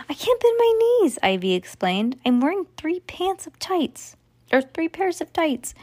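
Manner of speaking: high, fast, strained little voice; stiff complaining kid. Acted. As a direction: whine like you're stuck in layers. Ivy in too many clothes.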